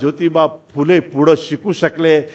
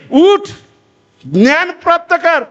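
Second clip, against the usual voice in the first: rousing scriptural command; 11 semitones higher than usual. Acted. Speaker quoting scripture's first verse to a crowd, rousing command. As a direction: call it out high as a summons.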